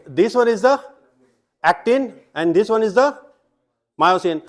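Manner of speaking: slow emphatic labelling. Shown as a demonstration. Teacher to class labelling students acting as actin, slow and emphatic. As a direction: point out each part slowly and clearly. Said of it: "आ जाओ, तुम ही आ जाओ".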